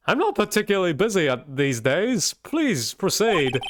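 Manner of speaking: lightly voiced eccentric old lawyer; Mad Hatter voice. Reading the game lawyer's lines, a light Mad Hatter voice. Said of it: "Mad Hatter kind of thing".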